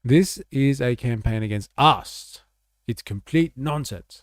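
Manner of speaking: a light send-up of a politician's outrage; mock politician. Streamer dubbing the German politician with mock indignation. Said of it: "Naja, das ist eine Kamp".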